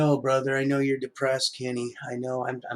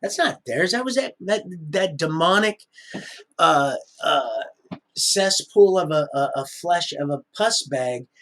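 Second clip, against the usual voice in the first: rising rant; 3 semitones higher, 5 dB louder than usual. Real, not acted. Ranting about demonic abuser.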